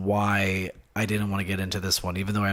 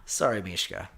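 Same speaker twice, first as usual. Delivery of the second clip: ordinary talk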